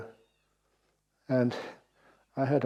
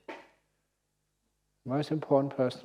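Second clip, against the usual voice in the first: slow emphatic repeat; much slower than usual. Shown as a demonstration.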